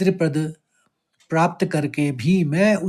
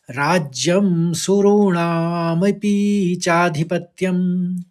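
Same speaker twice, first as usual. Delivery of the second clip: slow, measured Sanskrit chant; slow verse recitation; 3 semitones higher, slower than usual. Shown as a demonstration. Teacher reciting the verse to students, slow and measured. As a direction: recite the shloka slowly and evenly. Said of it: "पूरा श्लोक एक साथ करेंगे".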